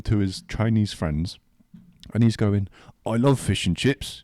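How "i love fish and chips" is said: slow, lightly put-on British accent; mock British accent. Quoting an Indian bloke among friends, mock British accent. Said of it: "one of them's doing a British accent".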